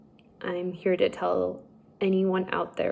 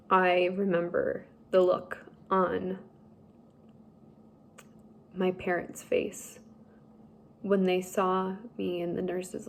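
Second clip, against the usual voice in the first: slowed, emotion welling up in the voice; emotional. Real, not acted. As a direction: voice catching with real emotion. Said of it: "I'm getting a little emotional".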